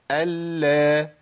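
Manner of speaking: "ال" with a doubled L held briefly, released into a vowel; doubled lam, timed. Shown as a demonstration. Teacher drilling doubled lam for students, "ال" with a measured L hold. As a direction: linger evenly on the L of "ال" before opening it. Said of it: "نفس الزمن".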